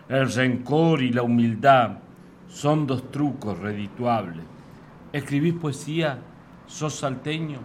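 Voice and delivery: declaimed verse in rhythmic phrases with pauses; comic folk-poem declamation; poem recital. Acted. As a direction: recite with swinging pitch, rising openings and falling line ends. Reads own poem aloud.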